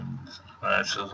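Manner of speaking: ordinary delivery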